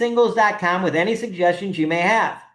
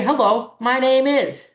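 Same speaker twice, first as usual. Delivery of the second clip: pleasant hello, pitched higher; polite greeting demo; 5 semitones higher, slower than usual. Shown as a demonstration. Greeting Bill Gates politely instead of complaining. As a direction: greet him simply and nicely. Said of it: "You'd say".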